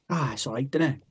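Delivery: understated, offhand dad reply; retold non-committal shrug of a verdict; grudging approval. Dad judging his son's new kitchen, grudging approval.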